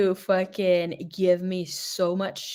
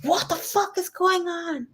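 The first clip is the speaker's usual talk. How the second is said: much higher, breathy unvoiced whisper, slow; 10 semitones higher, slower than usual. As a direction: hiss it like a harsh night-time whisper. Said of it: "same words whispered".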